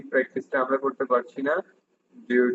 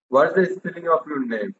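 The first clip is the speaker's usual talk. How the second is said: slow model question; much slower than usual. Shown as a demonstration. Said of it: "teacher models dialogue".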